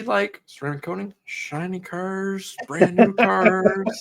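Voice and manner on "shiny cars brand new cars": laughing. Real, not acted. Laughs describing ideal cars.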